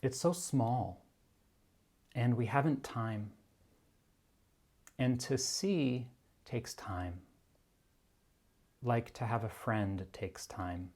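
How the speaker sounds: slow, measured recital with long pauses; unhurried reading aloud, phrase by phrase; quote reading. Acted. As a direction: let each phrase of the quote settle before the next. Reads a favorite quote aloud.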